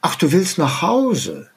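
mock-cheerful carer who knows best; lightly hammed-up condescension; exaggerated patronising daughter. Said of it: "ich übertreibe das jetzt mal".

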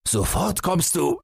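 high, contained shouted order; father's bellow. A narrator's reading. Father orders fleeing son back, high-pitched mock bellow. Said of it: "brüllte der Vater".

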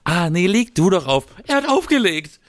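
playful lovers' hang-up banter; giggly late night call. Pretend. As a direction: tease like a couple on the phone. Mock lovers' phone goodbye.

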